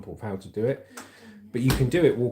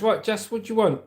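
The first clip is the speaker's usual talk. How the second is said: imitating mum; 9 semitones higher than usual. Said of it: "She goes".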